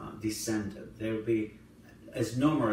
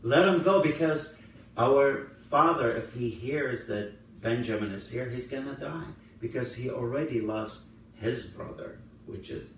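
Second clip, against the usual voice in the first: pleading; 4 dB louder than usual. Retold or imitated. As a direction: plead for a brother's release in a retold voice. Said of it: "all kneel crying, begging him".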